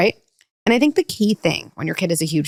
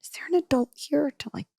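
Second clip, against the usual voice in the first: kid mimicking; 9 semitones higher, 3 dB quieter than usual. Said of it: "adult, they're like".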